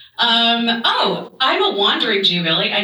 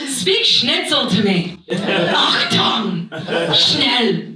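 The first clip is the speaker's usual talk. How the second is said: mock-sexy German; 3 semitones lower, much slower than usual.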